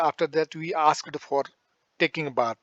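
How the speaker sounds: very slow, word by word for the class; slow classroom dictation. Shown as a demonstration. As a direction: spell it out slowly for students to copy. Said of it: "ऐसे बोलते रहो".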